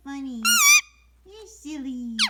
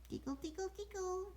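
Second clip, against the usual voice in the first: softer playful singsong; soft tickling coo; 4 semitones higher, 5 dB quieter than usual. Real, not acted. Cooing while tickling.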